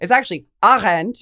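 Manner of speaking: loud, bad put-on German accent. Retelling a reply to a pedantic commenter on a name: bad German accent. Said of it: "forgive my bad German accent".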